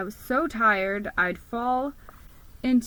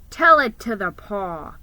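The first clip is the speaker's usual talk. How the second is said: smirking; 6 dB louder than usual. Acted. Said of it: "he smirked".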